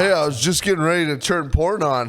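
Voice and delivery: high, fast mock come-on; creepy invite. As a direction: tease like a creepy host. Imitating the crewman.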